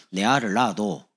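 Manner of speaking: imitating a Gyeongsang speaker; Gyeongsang dialect. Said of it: "경상도". (경상도 사투리로)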